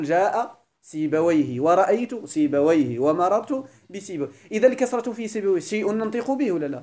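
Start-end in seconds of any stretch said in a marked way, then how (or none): 0.0-4.3 examples. Shown as a demonstration. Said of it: "تقول".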